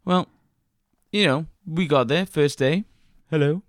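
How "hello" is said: lightly voiced chirpy trainer; a hint of a cheerful trainer. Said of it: "You even did, like, a new voice".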